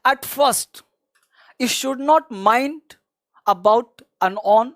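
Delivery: very slow, words spaced out; slow emphatic advice. Shown as a demonstration. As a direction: lay it out slowly so it sinks in. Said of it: "मैं एक बात बताऊं". (धीमे, ज़ोर देकर समझाते हुए)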